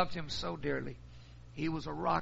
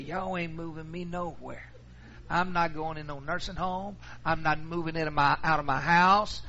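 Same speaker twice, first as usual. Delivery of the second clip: irate mother; 4 dB louder than usual. Retold or imitated. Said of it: "She called me irate".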